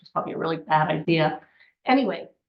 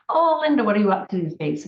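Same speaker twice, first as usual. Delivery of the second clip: friendly greeting; 4 dB louder than usual. Retold or imitated. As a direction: greet a client brightly, then rattle on quickly. Acted friendly greeting to client.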